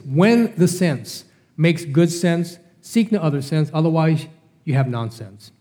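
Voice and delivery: very slow, each sense weighed; slow teaching cadence; slow, deliberate maxim. Shown as a demonstration. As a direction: drill the saying home slowly. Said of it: "listen, let me tell you this".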